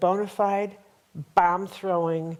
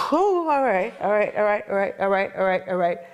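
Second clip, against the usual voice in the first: relieved whew. Retold or imitated. Reliving relief after the voice calmed her, settling down. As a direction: exhale the tension, then settle.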